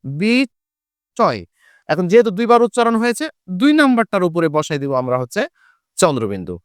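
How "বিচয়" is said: বিচয় drawn out very slowly, স doubled and nasalised; বিচয়: stretch it, double the middle sound; slow pronunciation demo. Shown as a demonstration. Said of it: "এই শব্দটার উচ্চারণ হবে দুইবার". (খুব ধীরে বিস্ময় উচ্চারণ)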